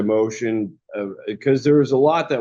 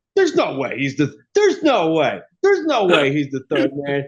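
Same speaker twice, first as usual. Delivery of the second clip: mock worked-up, animated, swooping, can't-believe-it tone; 4 semitones higher than usual. Retelling how dad reacted while watching: imitating dad's excited disbelief. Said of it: "you know how animated he gets".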